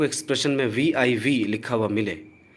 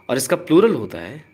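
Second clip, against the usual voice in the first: whisper; 4 dB louder than usual. Real, not acted. Teacher whispers an aside.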